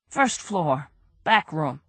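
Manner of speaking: a nervous crook begging his innocence; whiny crook voice. Acted. Brady voice.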